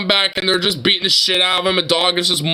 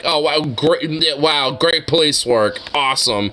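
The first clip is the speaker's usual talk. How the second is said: sarcastic praise; 5 semitones lower than usual. Retold or imitated. Mocking the police work.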